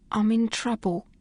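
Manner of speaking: a hint of Australian, hushed and pleading; whispered Australian accent. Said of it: "whispered Phryne in her best Australian accent".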